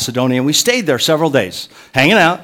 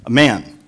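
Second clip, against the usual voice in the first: "man" set apart and pushed harder; stress on man; 3 semitones lower than usual. Real, not acted. Preacher stressing Timothy is grown, stress on "man". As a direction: lean firmly on the word "man". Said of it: "Let me emphasize the word man".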